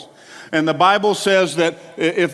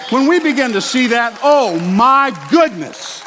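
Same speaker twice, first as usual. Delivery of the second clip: preaching at full force; 3 semitones higher than usual. Acted. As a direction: drive it home to the congregation. Preaching climax builds.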